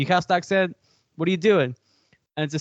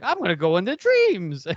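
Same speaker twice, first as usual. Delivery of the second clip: lightly hammed-up character quote, pitched higher; mock villain announcement; 4 semitones higher than usual. Host mimics the odd character amid serious talk, lightly hammed-up. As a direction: play him gleefully off-task, a bit higher. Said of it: "And he's just like".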